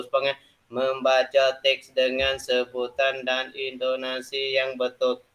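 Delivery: slow, deliberate, every word spaced out; slow careful reading. Shown as a demonstration. Teacher models the reading for pupils, slow and deliberate. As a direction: read it out slowly so pupils catch each syllable. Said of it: "biar kita baca, tak ada baca betul-betul".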